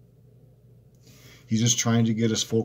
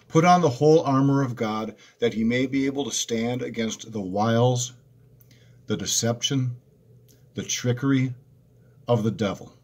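raised, solemn Bible reading; preacher reading Ephesians aloud; scripture reading. Acted. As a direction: read the verse out to the congregation.

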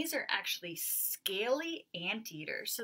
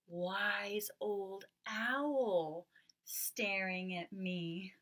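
hushed reveal; much slower than usual. Acted. Teacher revealing the owl in a hushed storytelling voice. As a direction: build a little mystery. Spooky reveal in nighttime rhyme.

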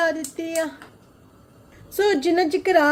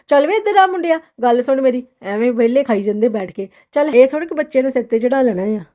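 dramatic loud aunty; 4 semitones lower, 5 dB louder, faster than usual. Acted. Scolding a lazy boy, loud.

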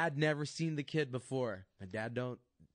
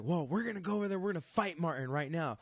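dad's voice; 7 semitones higher, 3 dB louder, faster than usual. Retold or imitated. Dad deciding to fight.

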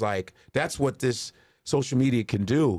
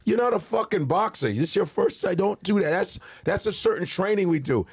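higher, stern correction; scolding trainer; 7 semitones higher than usual. Retold or imitated. Trainer scolding comedian, higher stern voice. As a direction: set the cocky rookie straight. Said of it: "he goes".

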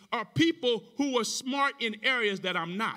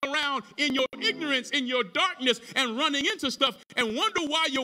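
preaching; 4 semitones higher than usual. Real, not acted. Preaches with raised voice.

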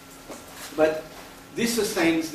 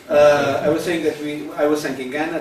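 speaking up; 3 semitones higher, 7 dB louder than usual. Real, not acted. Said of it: "can you speak up, please?".

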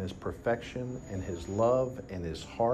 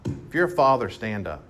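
loud call to stand; 6 dB louder than usual. Real, not acted. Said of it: "repeats the call".

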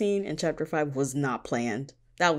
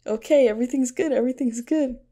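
mock relief; 9 semitones higher, 5 dB louder than usual. Reader reassured in chapter five.

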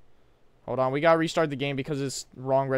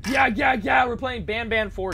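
excited announcing; 6 semitones higher, 4 dB louder than usual. Real, not acted. Announcing the game.

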